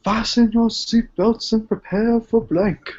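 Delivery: lightly voiced airline captain; a hint of a pilot announcing over the PA; over the intercom. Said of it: "This is your captain speaking".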